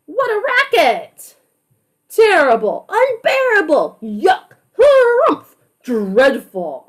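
a string of fed-up complaints, each one a new cranky neighbor; grumpy neighbors. Acted. Neighbors fed up with the saxophone, grumbling one after another. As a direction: huff each one out like a different annoyed neighbor.

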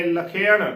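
ਲਖੇਣ as la-khe-an, retroflex final n; correct pronunciation. Shown as a demonstration. Teacher repeats the model word for listeners, careful pronunciation. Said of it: "ਲਖੇਣ ਉਚਾਰਨ ਕਰਨਾ ਹੈ".

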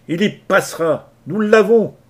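high, loud gloating yell; triumphant shout. Acted. Leach boasting to the crew they have him, shouting. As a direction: crow it out over the brawl. Leach yelling mid-fight.

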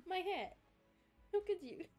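high, whiny mock hurt; mock heartbroken. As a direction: pout it out, high and wounded. Playful mock grief over hat.

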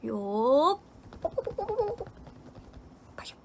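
windup, then rapid high popping punches; playful punch noises. Pretend. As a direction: make tiny rapid-fire punch sound effects. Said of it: "千三百発のひなパンチやって". (おどけた連続パンチの効果音)

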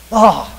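frustrated groan. Retold or imitated. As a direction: let out a mock exasperated "oh". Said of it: "I'm just super frustrated".

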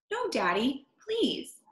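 put-on pleading child, rising high on please; begging. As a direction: beg Daddy not to send the dog away. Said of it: "begged Betty and Billy".

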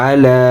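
"আলা" with the final "লা" held long; one-count elongation. Shown as a demonstration. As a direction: stretch the last vowel of "আলা" for one count. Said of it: "একাল প্রাণ হবে".

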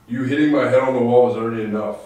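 loud defiant. Real, not acted. Defiant at the spirit.

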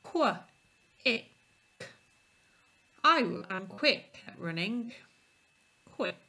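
quick split into qu and it, then blended; teacher segmenting quick for a child; sounding out. Shown as a demonstration. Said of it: "segment the sounds".

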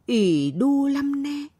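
put-on high, slow old grandmother voice; pitying grandmother. A narrator's reading. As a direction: croon with pity as an old woman. Relatives weeping over Pai.

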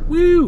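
high, loud "woo"; excited whoop. Real, not acted. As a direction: let out a piercing little cheer. Excited cheer on spotting the place.

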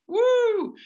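very high, loud ecstatic whoop; joyful whoop. Real, not acted. Preacher whoops to the congregation in ecstatic delight. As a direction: let out a wild cry of delight.

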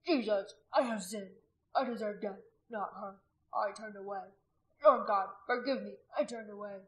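anguished, penitent plea; weeping prayer. A narrator's reading. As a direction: confess to God through tears. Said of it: "He wept".

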